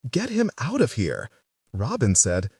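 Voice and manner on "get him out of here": shouting. A narrator's reading. Ruth at Missus Pomeroy's, wanting Robin out, shouting. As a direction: yell it at him, pitched way up. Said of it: "Ruth shouted".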